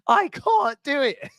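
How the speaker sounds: high, slow whiny "I can't do it"; Sam Thompson meme. Retold or imitated. Fan imitates a TV celebrity meme for his mate, high slow whine. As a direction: whine it like a reality star at the end of his rope. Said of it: "That's the meme".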